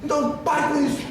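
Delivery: high, firm order with a laugh in it; amused blunt therapist. Retold or imitated. Therapist ordering the patient to stop, laughing through it. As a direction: scold her while nearly laughing.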